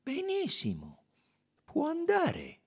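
high, unruffled dismissal; placid, high-voiced detective; tranquil. A narrator's reading. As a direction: dismiss him calmly in a high voice. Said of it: "replicò tranquillo".

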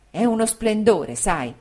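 lively, emphatic praise; with energy. Acted. Friend praising his fiancée's sister, with mild energy. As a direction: sell how splendid she is. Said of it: "disse Traddles con energia".

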